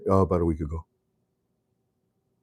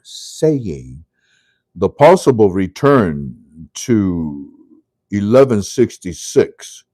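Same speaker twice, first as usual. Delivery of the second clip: slow quoting; 5 dB louder, slower than usual. Retold or imitated. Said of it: "I know he's laughing his head off".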